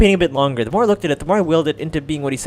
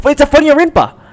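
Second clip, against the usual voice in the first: playful shout; 8 semitones higher, 9 dB louder than usual. Acted. Repeated joke answer.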